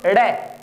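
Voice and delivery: ੜੈ with tongue curled back, flicked down; retroflex flap demo. Shown as a demonstration. Teacher showing pupils the sound, retroflex flapped ੜੈ. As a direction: say ੜੈ with the tongue folded to the palate and released sharply. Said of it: "ਉਚਾਰਨ ਕਰਕੇ ਵੇਖੋ".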